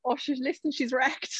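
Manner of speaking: breathy confiding whisper; whispered gossip. Retold or imitated. Mum gossiping about the teacher to her daughter, whispered. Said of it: "she's like".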